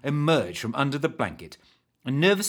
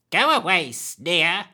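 high, louder hag order; commanding; 6 semitones higher, 6 dB louder, slower than usual. Acted. Hag orders the creepy man away, commanding. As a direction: command him to leave. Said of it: "commanded the woman".

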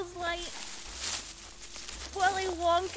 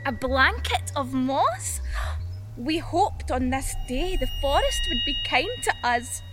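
forest creature; 4 dB quieter, slower than usual. Acted. Hidden forest creature musing hatefully on the campers. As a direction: creep out the listener softly.

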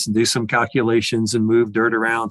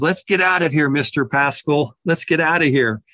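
mild mock yell, pitched up; retold yell; 3 semitones higher than usual. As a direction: call out to get out of the ditch, half-hearted. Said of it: "he yelled at me".

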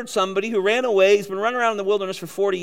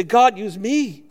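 slow pleading prayer; 4 dB louder, much slower than usual. Pretend. Pastor acts out humble prayer.

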